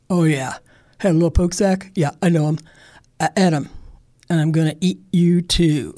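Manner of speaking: a bear who's pleased with himself; hint of a gruff bear. Bear telling the girl he ate her brother, lightly gruff.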